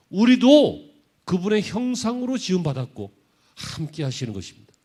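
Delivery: loud, high-pitched sermon delivery; impassioned preaching. Real, not acted. Pastor telling the congregation God is with us, impassioned preaching.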